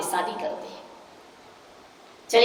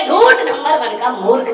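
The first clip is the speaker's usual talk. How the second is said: scornful insult; 3 semitones higher, 6 dB louder than usual. Retold or imitated. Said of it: "बोले".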